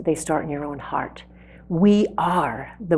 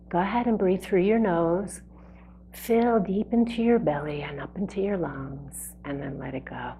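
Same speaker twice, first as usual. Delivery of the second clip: guided breathing; 4 dB quieter than usual. Real, not acted. Leads a breathing exercise.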